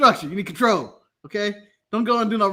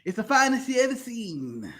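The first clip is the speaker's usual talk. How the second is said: put-on slow, slurred drunk Dusty Rhodes; 4 dB quieter, much slower than usual. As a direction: drag out the words like a drunk wrestler. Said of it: "when we do the drunk voice".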